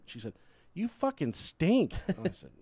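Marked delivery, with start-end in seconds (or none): 0.7-1.9 slow, disgusted wife voice. Retold or imitated. Wife reacting to the smell in the car, slow and disgusted. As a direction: drag it out in mock disgust.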